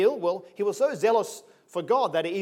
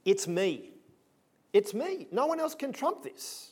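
boastful Paul; 4 semitones higher, slower than usual. Acted. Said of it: "says Paul".

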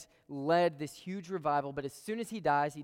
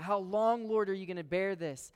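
higher, louder lament to the Lord; crying out; 5 semitones higher, 5 dB louder than usual. Retold or imitated. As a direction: plead with the Lord, voice raised. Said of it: "He cries out".

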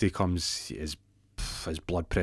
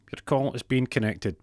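higher recorded-operator voice; automated phone message; 4 semitones higher than usual. Acted. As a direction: recite it like a hold-line recording.

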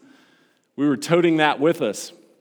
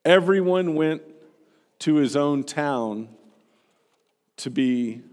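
scripture reading. Acted. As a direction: read the passage to the congregation, unhurried. Reads Luke two aloud.

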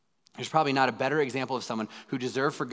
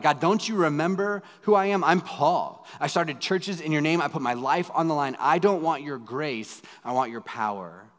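raised, higher, insistent protest; pushing back at God; 3 semitones higher, 4 dB louder than usual. Retold or imitated. Paul arguing with God for power, higher and louder. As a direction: remind God who you are, loud and indignant. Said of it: "I'm gonna remind God".

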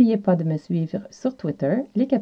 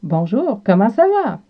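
asking how are you; 3 semitones higher than usual. Retold or imitated. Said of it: "si une personne vous demande".

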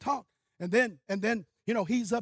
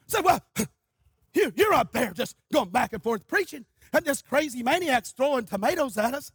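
retold indignation; 4 semitones higher, 4 dB louder than usual. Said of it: "they're mad and angry".

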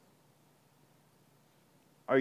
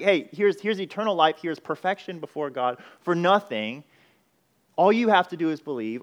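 excited offer; 3 semitones higher, 4 dB louder than usual. Acted. Preacher voicing the gospel offer.

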